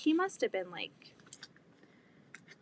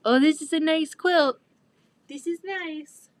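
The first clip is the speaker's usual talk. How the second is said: voicing the baby; 6 semitones higher, 9 dB louder than usual. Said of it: "he's just like".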